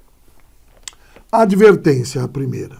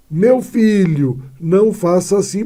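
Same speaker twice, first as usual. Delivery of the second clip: calling someone to attention; 3 semitones higher, 4 dB louder than usual. Shown as a demonstration. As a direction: call out to a child to stop. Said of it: "o vocativo é quando eu chamo alguém".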